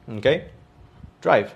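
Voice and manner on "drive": "Drive" on its own, with a clear "ai" vowel; pronunciation model. Shown as a demonstration. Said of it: "si yo tuviera que escribir esta palabra".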